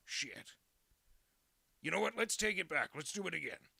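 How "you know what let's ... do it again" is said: excited. Pretend. Mock restart, loud.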